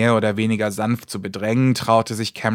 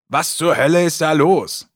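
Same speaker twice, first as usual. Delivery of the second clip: 1 alarmed demand; 5 semitones higher, 4 dB louder than usual. Acted. Will's alarmed question.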